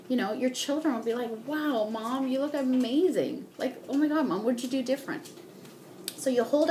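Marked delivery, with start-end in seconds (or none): 1.5-5.3 higher-pitched, mock-amazed kid's praise; amazed child. Children praising their made-over mom, amazed. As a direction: lightly play an impressed child.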